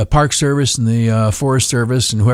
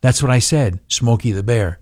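deadpan; 2 semitones lower than usual. Retold or imitated. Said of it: "blank expression on your face".

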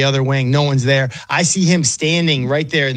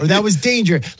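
higher-pitched mock scolding at normal volume; mock TV yelling; 5 semitones higher than usual. Fan scolding the quarterback's risky play, mock yelling. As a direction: imitate a fan complaining at the screen. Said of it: "like, yelling at the T V".

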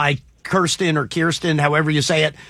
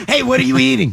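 laughing question, a touch louder; 4 semitones higher, 4 dB louder, faster than usual. Real, not acted. Host laughs at caller eating.

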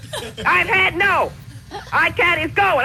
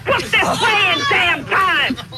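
indignant; slower than usual. Real, not acted. Angry customer arguing with agent.

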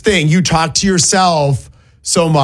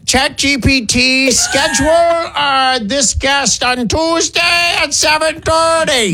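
put-on slow, higher, shouty old man; 6 semitones higher, slower than usual. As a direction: yell at the phone like an old man. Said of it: "Use your weird old man voice".

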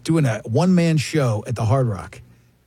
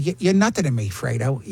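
put-on young Pacino; 3 semitones lower than usual. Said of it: "I did that voice".

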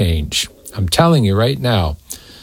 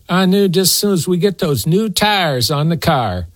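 lightly voiced naysayer; 2 semitones higher than usual. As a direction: lightly imitate a folksy doom prophet. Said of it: "they're always prophesying".

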